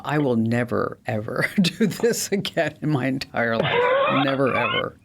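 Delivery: emphatic refusal breaking into laughter; laughing vow. Real, not acted. Host swearing off ever building a home, laughing. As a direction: laugh through a weary vow.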